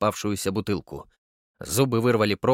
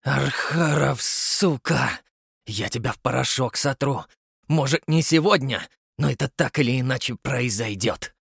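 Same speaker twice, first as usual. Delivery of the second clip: growling. Acted. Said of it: "прорычал".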